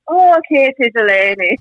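imitating an Irish uncle's greeting; lilting Irish accent, opening high. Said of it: "Can you do an Irish accent?".

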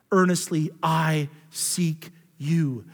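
"Earnestly" drawn out slow and soft, a quiet plea; slow earnest prayer. Shown as a demonstration. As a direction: pray "Earnestly I seek you" slowly and softly, from the heart. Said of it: "the author says here".

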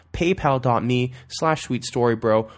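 "paypal dot me slash sweet story bro" spelled out slowly, each part separate; slow it down so they can type it; slow and clear. Shown as a demonstration.

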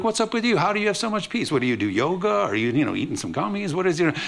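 mock baffled peers asking; puzzled classmates.

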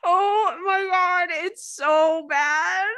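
high, loud, drawn-out wail through laughter; helpless laughter. Real, not acted. Podcaster losing it before telling a terrible bedroom story, helpless laughter. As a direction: barely get it out for laughing.

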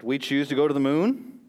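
measured presidential oration; projected political speech, slowing to the close; JFK. Acted. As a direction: declaim it in firm, weighty phrases. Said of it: "He said".

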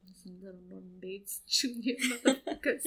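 hushed, half-laughing whisper; mother's creeped-out whispered thought; mock whisper. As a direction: whisper it like a dark secret. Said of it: "I thought, like".

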